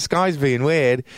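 high, drawn-out mock complaint; imitated complaining librarian. Librarian reporting a visitor to security, high mock complaint. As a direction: stretch it out high like a put-on librarian.

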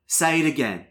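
put-on lightly British-accented request; Minnie Driver accent. Skylar asking to hear the names, in a British accent. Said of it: "do it in the Minnie Driver accent".

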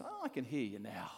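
sudden drop to everyday volume; satisfied coach. Acted. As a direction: let the shouting go and concede. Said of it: "he says".

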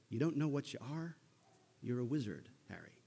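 put-on sheepish half West Country accent; lightly attempted Hagrid West Country accent. Hagrid telling Harry the news, a half West Country accent. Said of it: "That's kinda half an accent".

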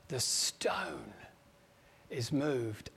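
hushed whisper for suspense; preacher building suspense at the tomb, whispering; whispered reveal. A narrator's reading. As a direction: lean in and whisper it.

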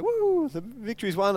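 high celebratory woo, then settling; a light, high-pitched whoop of victory; mock cheer. Preacher mimics people celebrating a battle won, mock cheer.

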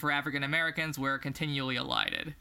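measured book-reading voice; reading aloud. Acted. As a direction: read the passage out evenly. Reads a book passage.

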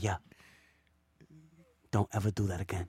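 very soft, low-pitched voice; hushed, like talking from under a pillow. Retold or imitated. On a scam call from his own house, talking low. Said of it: "and I was mad low".

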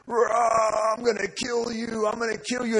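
a hint of a snarling possessed kid; menacing growl. Possessed kid threatens the helper, lightly voiced snarl.

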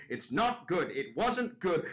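lightly voiced nagging old woman; insistent old judge. Old judge who keeps going at dad, lightly mimicked insistence. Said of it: "Margaret keeps just going".

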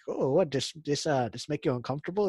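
lightly mocked Canadian accent; bad Canadian accent. Retelling Rob Lowe's line from the movie, bad Canadian accent. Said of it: "really bad Canadian accent".

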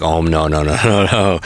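retold "oh no" breaking into a laugh; laughing mock dismay. Teacher retelling a child's confession to parents, laughing in mock dismay. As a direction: act out dismay, laughing through it.

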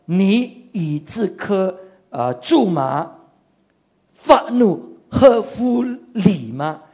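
slow, weighty questioning; slow voice of God. Acted. God asking Jonah if his anger is right, slow and weighty. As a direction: draw the question out like God rebuking.

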